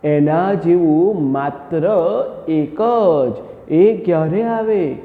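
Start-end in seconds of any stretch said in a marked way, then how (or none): 0.0-3.3 slow deliberate dictation. Shown as a demonstration. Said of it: "આ બહુ ધ્યાનમાં રાખવા જેવી બાબત છે બેટા".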